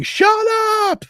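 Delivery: drawn-out imitated holler; playful retold shout; mock yell. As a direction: imitate a yelled command, stretched out. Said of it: "she's just yelling".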